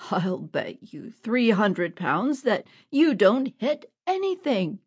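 the bandit's amused, scornful wager; chuckling counter-bet. Acted. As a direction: toss the bet back with a smirk.

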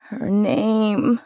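high, loud, sharp demand. Acted. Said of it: "she demanded".

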